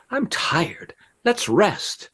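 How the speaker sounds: high, piping pigeon voice; wild pigeon. A narrator's reading. Second pigeon asking the flock to rest, high bird voice. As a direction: chirp it high as a tired bird. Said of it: "another one said".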